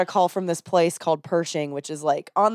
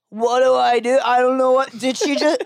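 bewildered husband; 6 semitones higher than usual. Retold or imitated. Bewildered husband left behind, retold.

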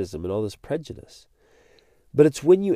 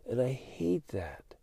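whisper; 11 dB quieter, slower than usual. Real, not acted. Quiet confession after heated rant.

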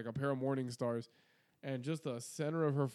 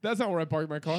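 voicing the cat; 3 semitones higher, 7 dB louder than usual. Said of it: "Oh, that wasn't where I wanted to land".

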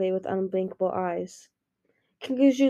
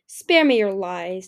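cold rebuke; 5 dB louder, slower than usual. Acted. Darkstalker rejects her.

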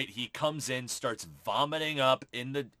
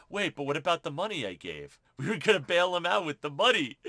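fast, flustered protest; flustered Strike; 3 semitones higher, faster than usual. Retold or imitated. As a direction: rush out the words in a panic. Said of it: "Strike's like".

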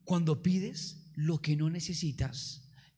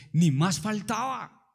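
firm, authoritative; 4 semitones higher, 5 dB louder, slower than usual. Retold or imitated. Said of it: "le hablé con firmeza y con autoridad".

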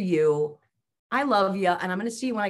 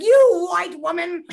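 slow, louder, higher mock outrage; mock angry; 8 semitones higher, 8 dB louder, slower than usual. Guest retelling her road rage at another driver, slow mock anger. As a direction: ham up a road-rage jab. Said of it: "I got so angry".

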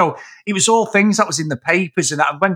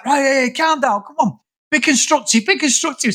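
mock placating voice; 8 semitones higher than usual. Quoting calming the angry fans.

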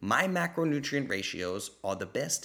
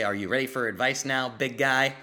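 mocking taunt. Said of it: "I'll say".

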